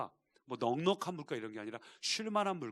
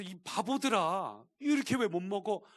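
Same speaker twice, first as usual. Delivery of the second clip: mock angry scolding; 2 semitones higher, 4 dB louder than usual. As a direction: act out a shepherd losing patience with the flock. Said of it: "막 화를 내는". (양떼에게 화내는 척 길게 늘여 꾸짖기)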